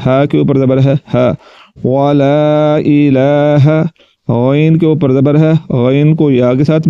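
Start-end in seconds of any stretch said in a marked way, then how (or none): 1.8-3.8 "وتبارک" drawn out slowly, chanted syllable by syllable; slow recitation. Shown as a demonstration. Teacher modelling the recitation of "وتبارک". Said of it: "teacher reads the text slowly".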